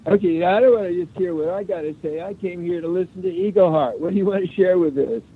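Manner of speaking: distant, hollow phone voice; sounding far from the mic; down a well. Real, not acted. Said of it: "you sound like you're down a well".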